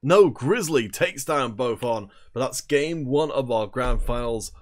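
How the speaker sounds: energetic esports caster call; play-by-play commentary. Acted. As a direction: call the match live, building hype.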